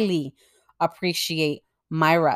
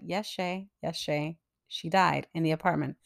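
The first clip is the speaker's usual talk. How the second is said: soft super voice; 3 semitones lower, 9 dB quieter than usual. Retold or imitated. Super voiced confirming lady died.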